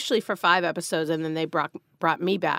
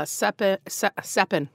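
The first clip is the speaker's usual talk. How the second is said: "Seppen" with a Boston twang; Boston "Seppen" for seven; Boston accent; 3 semitones higher than usual. Real, not acted. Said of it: "My Boston accent".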